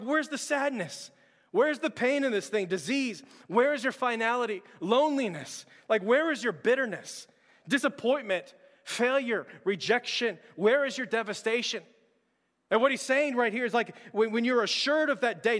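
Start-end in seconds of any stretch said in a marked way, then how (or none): 0.0-11.8 preaching at full force. Acted. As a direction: preach it like a victory cry. Preaches taunting death.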